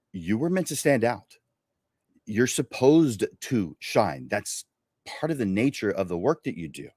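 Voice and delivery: measured presenter read with long pauses; scripted show intro. Acted. Host introducing the episode to photographers, scripted presenter delivery. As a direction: deliver a prepared intro, stretching the key words.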